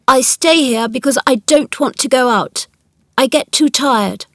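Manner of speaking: put-on mildly complaining invalid child; a touch of childish self-importance; sickly, imperious boy. Narrator voices Colin.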